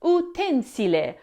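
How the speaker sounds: utensile with the stress on the second syllable, u-TEN-si-le; adjective pronunciation. Shown as a demonstration. Teacher showing the adjective form, stressed u-TEN-si-le. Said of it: "it's pronounced".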